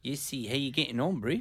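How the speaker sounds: put-on South African greeting; attempted South African accent. Shown as a demonstration. Co-hosts must guess the accent, mock South African. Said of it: "That's South Africa".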